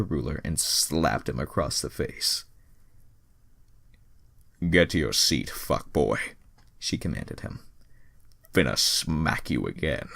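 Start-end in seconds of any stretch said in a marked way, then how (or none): 4.7-6.2 commanding teacher voice. Acted. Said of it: "I gave a woman that voice". 8.5-10.1 commanding teacher voice. Acted. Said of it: "I gave a woman that voice".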